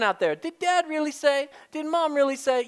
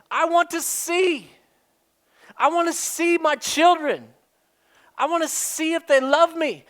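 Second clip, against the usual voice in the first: God's voice; 5 semitones higher, 4 dB louder than usual. Acted. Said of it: "and he said".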